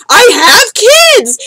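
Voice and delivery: very high, very slow mock shriek; imitating a shrieking friend. The friend yelling back about her kids, high mock shriek. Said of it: "And she was like".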